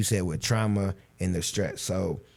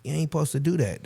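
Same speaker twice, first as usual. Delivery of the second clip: harsh dad scolding; 8 semitones higher than usual. Retold or imitated. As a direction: bark it like a dad who won't allow tears. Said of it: "some guys".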